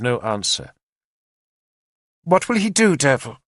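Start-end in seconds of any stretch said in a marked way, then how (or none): 2.2-3.4 energetic demand. A narrator's reading. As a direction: demand an answer with old fire. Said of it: "demanded again, with some of her old energy".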